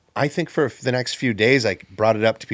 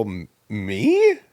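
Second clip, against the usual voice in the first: mimicking Rick's surprise; 3 dB louder than usual. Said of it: "basically mimicking Rick".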